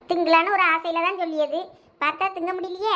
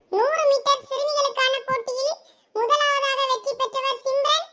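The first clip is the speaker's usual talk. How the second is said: high, slow formal announcement; results announcer; 7 semitones higher, slower than usual. Acted. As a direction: read out the winners slowly and formally. (வெற்றியாளர்களை நிதானமாக அறிவிக்கும் குரல்)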